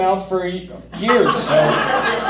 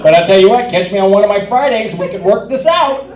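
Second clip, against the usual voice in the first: flirty mock offer; 5 dB louder than usual. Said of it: "And I said".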